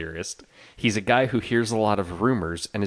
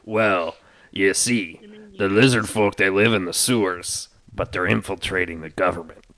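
conspiratorial NPC; 4 semitones lower than usual. Acted. NPC explains lizard folk.

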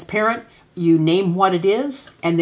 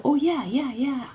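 put-on eager kid reply; 8 semitones higher, 4 dB quieter than usual. Kids' eager reply imitated.

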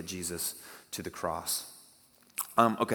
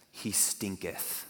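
slow King James reading; 3 semitones lower, 8 dB quieter, much slower than usual. Retold or imitated. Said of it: "the King James Version actually says".

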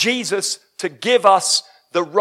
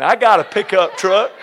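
Southern accent; 2 semitones lower, 4 dB louder than usual. Shown as a demonstration. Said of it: "that sounded a bit southern".

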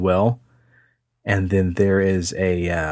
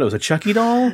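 incredulous; 12 semitones higher, faster than usual. Real, not acted. Disbelief at the doll.

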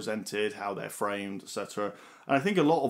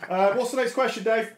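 through laughter; 11 semitones higher, 5 dB louder than usual. Real, not acted. Recovering from laughter.

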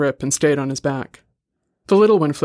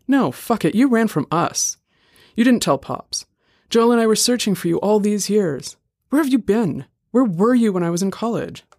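1 angry confrontation; 6 semitones higher than usual. A narrator's reading. Leon confronts runaway brother.

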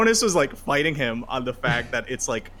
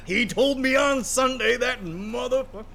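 laughing; 12 semitones higher than usual. Real, not acted. Laughing disbelief.

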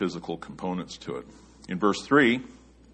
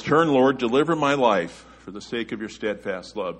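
pleading prayer; 4 semitones higher, 7 dB louder than usual. Retold or imitated. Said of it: "He says".

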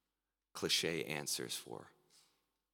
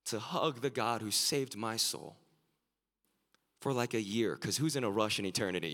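higher and louder, bubbling with delight at finally hugging Jesus; excited imagined words; 6 semitones higher, 6 dB louder than usual. Retold or imitated. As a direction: gush with joy like a child meeting a hero. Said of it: "Be like".

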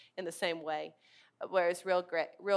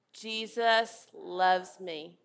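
each word drawn out, slightly louder; slow group recitation; 5 dB louder, much slower than usual. Shown as a demonstration. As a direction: lead the room through it slowly. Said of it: "I want you to say it with me".

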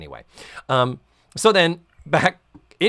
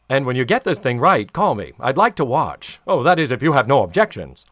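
leering landlord line, a bit louder; Mister Furley exit line; 5 dB louder than usual. Retold or imitated. Mister Furley leaving the room with a louder leering quip. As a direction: deliver it like a sleazy exit quip. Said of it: "his Mister Furley exit line".

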